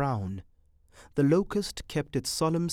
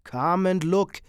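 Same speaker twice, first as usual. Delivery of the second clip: raised, louder insistent call; 6 semitones higher, 7 dB louder than usual. A narrator's reading. Man calls her to see the locust, calling out. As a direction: call someone over to look. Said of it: "he called".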